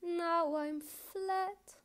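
pleading, high-pitched poetic apology; impassioned confession. Acted. Poem's confession and apology swells.

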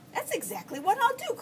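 put-on high-pitched boyish declaration; declaring. A narrator's reading. Junior resolves how to earn racer money, declaring it high. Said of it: "declared Junior".

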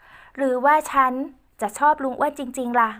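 put-on soft teasing girl. Ae teasing Uncle Uan softly, high girlish voice. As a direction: draw it out slowly as Ae. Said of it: "พูดเสียงเบาๆ".

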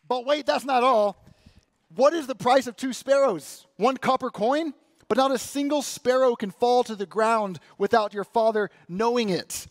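high, loud infomercial hype; excited infomercial voice, pitched right up; nineties infomercial pitchman. Acted. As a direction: sell it like a TV pitchman revealing the bonus. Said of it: "just like my favorite infomercials in the nineties".

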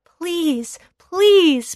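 high rising please; pleading. A narrator's reading. Boy begging the villagers, pleading. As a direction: beg with it. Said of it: "pleaded the boy".

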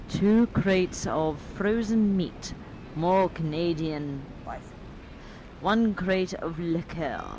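slow, deliberate inventory reading; reading out a list. A narrator's reading. Player reads shipping manifest to friends, slow list reading. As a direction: read each item out unhurriedly.

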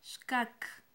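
Shkak with sh then a crisp kak; Mam word, clearly modelled. Shown as a demonstration. Teacher models the Mam word for the next color, clearly. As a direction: model Shkak for students to echo. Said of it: "Una vez más".

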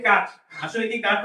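কাঠ with a plain hard 'k', no puff; Bangla-style pronunciation. Shown as a demonstration. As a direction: say কাঠ the local way, unaspirated first sound. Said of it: "আমরা বলি". (কাঠ বাংলার মতো সোজা 'ক' দিয়ে)

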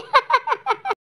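short laugh after a joke. Acted. Assistant jokes about double shots, laughing. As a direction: laugh off the teasing threat. Joking threat of double injections.

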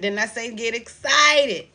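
urging them on while starting to cry; emotional, teary excitement; tearful. Real, not acted. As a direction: voice catching with tears.

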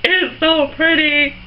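slow, drawn-out delight; real giddy overwhelm; overexcited gushing. Real, not acted. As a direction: gush as if shaking with excitement. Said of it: "I'm, like, shaking right now".

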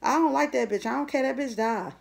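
a hint of a petty rival; mock hater talk. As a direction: toss it off like a spiteful gossip. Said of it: "That's how these hoes talk".

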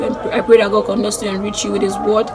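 soft earnest blessing; prayer. Real, not acted. Vlogger blessing a YouTuber in a soft prayer. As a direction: pray over her sincerely. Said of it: "this has turned to a prayer".

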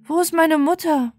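put-on high, pleading child's voice; a lost child begging for an answer; small voice searching for its mother. Star-Child asks the squirrel.

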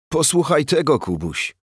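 a touch of amusement, no real laugh; eager to share a funny story; talking through laughter. A narrator's reading. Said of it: "mówił przez śmiech Bandura".

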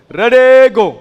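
shouted high, drawn out; booming host's cue; loud starting call. Real, not acted. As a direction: call the players to their marks. Host calls start to players.

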